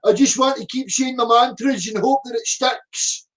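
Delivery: mocking a commenter who won't listen; mocking a mantra-repeater. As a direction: parrot it like a dim zealot. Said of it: "repeat religious mantra".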